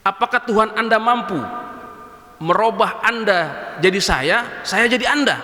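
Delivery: lightly voiced drunkard, slow and teasing; a drunk man goading the sheikh, unhurried; a mild drunkard's taunt to the sheikh; drunkard's challenge. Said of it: "pemabuknya ngomong sama begini".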